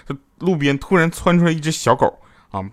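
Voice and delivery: ordinary delivery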